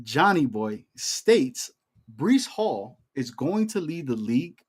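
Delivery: slow, measured proclamation; mock official statement. Host states his Breece Hall take, mock official statement. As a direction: read it out slowly like an official decree.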